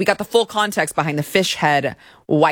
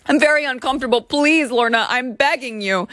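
higher, hammed-up plea; mock begging; 5 semitones higher than usual. Reading the complaint, mocking the plaintiff begging Lorna. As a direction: whine it like a victim.

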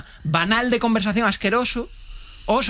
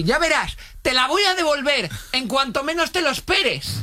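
mock menacing threat; 9 semitones higher, slower than usual. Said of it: "me dijo".

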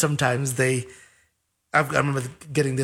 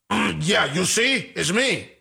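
smug preening; 3 semitones higher than usual. Retold or imitated. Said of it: "But I don't go like".

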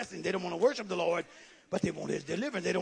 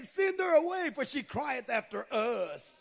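mock complaint; 4 semitones higher than usual. Preacher mocking disciples who want the woman gone, complaining. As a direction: mimic complaining disciples without raising the volume.

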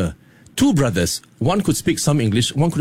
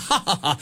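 mock hearty laugh; 3 semitones higher, 5 dB quieter than usual. Shown as a demonstration. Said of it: "when men laugh".

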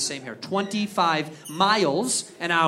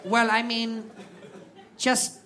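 deadpan rep voice; slower than usual. Retold or imitated. Rep tells him to just go.

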